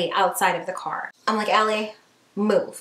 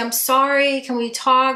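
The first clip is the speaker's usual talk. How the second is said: mock tearful, slow sobbing voice; 3 semitones higher than usual. Retelling how a man sitting outside the car apologized to Kate, imitating someone crying. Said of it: "he's like crying into his hands".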